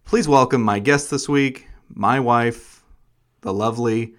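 polished host introduction; mild radio host delivery; podcaster voice. Acted. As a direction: introduce the guest like a show host. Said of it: "you have your podcaster voice on".

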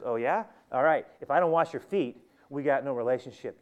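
loud, punchy counter-threat; challenging comeback. Acted. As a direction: fire back as if laying down terms. Jesus answers Peter's refusal with ultimatum.

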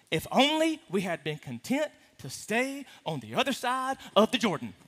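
lightly voiced despairing Joshua, a touch low; dramatic Joshua. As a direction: lament it like a mild drama queen. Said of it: "do you see the drama?".

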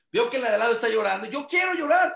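quick rising whine, high on llorar; imitating a desperate girl; mock frantic plea. Girl pleading with the rabbi to cry, high and frantic. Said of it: "Una chava me dijo".

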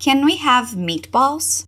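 slow, clear model question; slow it right down for learners. Shown as a demonstration. (pergunta modelo, devagar)

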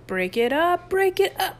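high command, climbing on the repeat; urgent rising holler; frantic shouting. A narrator's reading. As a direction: yell to stop a brawl. Chip trying to stop the brawl.

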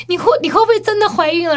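high, stammered tearful question; mimicked tearful father. Retelling dad's red-light question, mock tearful stammer. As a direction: stumble into it, imitating weepy dad. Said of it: "他就".

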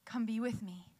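soft, quiet offer, no pressure; gentle invitation. Retold or imitated. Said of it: "He sits there and he's like".

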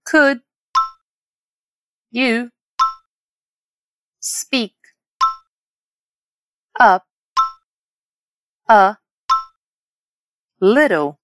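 "Could", "you", "speak", "up", "a", "little", "please" each separated; word by word. Shown as a demonstration. Teacher practising pronunciation with learners, word by word. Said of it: "Vamos praticar essa pronúncia?".

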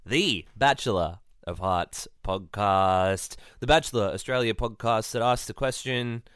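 loud, high showman welcome; big host intro. Acted. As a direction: boom it out like a host. Loud show opener.

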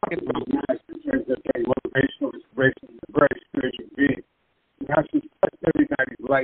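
underwater. Real, not acted. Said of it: "it's a little bubbly".

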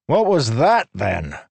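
high, loud indignant challenge; demanded. A narrator's reading. Human man angrily challenging Leshwi. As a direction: throw it back as an accusation.

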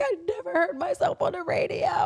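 high, wailing mock cry; retold happy crying. Retelling first time hearing self on radio, high mock-crying wail. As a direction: wail it, imitating overwhelmed tears. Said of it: "I just started crying so bad".

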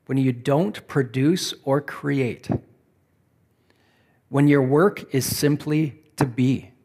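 measured questions, spaced out to dwell on; slow, deliberate reading. Real, not acted. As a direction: pose each question, then leave a long pause. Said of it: "I'm gonna read these slowly".

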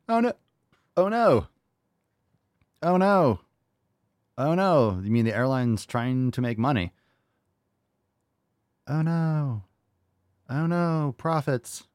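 high, hammed-up fake dismay; exaggerated pearl-clutching sarcasm; mock horror. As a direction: wail it in sarcastic alarm. Repeated mock horror at airlines profiting.

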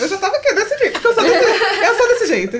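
high, loud laughing self-mockery; laughing at herself. Real, not acted. Laughing at her own dramatic side while telling friends. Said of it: "Não, é bem dramática".

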